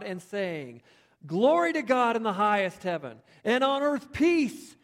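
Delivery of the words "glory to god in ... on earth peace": angelic praise. Acted. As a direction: ring it out like a choir of angels. Angel host praising God.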